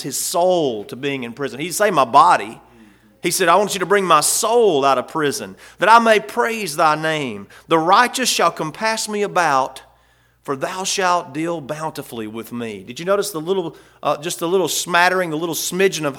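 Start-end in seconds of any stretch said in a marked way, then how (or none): 3.5-12.8 preaching the psalm. Acted. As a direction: lift the psalm up to the congregation.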